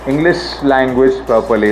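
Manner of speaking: "English language properly" slowly, clear SH ending "English"; careful SH. Shown as a demonstration. Teacher modelling proper English to pupils, slow careful SH. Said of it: "it's not English".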